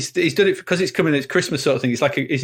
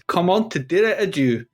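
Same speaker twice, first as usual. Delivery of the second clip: attempted French accent; 4 semitones higher than usual. Host announcing a French song title, best French accent. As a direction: have a go at French pronunciation. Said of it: "that was my best French accent".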